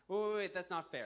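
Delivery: loud, high, rapid-fire objection; urgent protest. Acted. Man objecting after the ox rules for the snake, urgent protest. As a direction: burst in to object, acting outraged.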